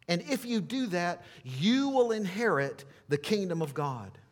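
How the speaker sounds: imagined words of Christ, voiced high and forceful; voice of Jesus. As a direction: proclaim it as a solemn promise to the crowd. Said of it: "what I think he might have said".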